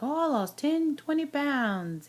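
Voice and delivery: high excited boast; mock boastful. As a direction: imitate others bragging about weight. Imitating what people say.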